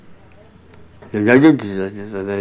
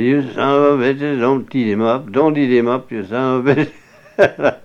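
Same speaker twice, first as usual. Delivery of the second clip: raised, higher voice hollering at hounds; retold yell at dogs; 4 semitones higher, 4 dB louder than usual. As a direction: call the dogs off, half-shouting. Daddy yelling at the hounds.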